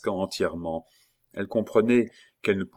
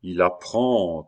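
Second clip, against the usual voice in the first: mocking; 4 dB louder, slower than usual. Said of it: "une intonation railleuse".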